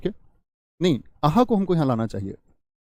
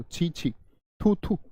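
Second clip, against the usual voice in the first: disgusted; 3 semitones higher, 6 dB quieter, much slower than usual. Shown as a demonstration. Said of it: "घृणा".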